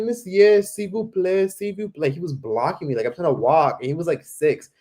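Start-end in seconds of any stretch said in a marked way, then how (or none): 0.0-2.1 high insistent plea in French, imitated; begging kid. Six-year-old blocking a tourist, begging in high French. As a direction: whine it like a small boy selling tissues. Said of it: "He's like".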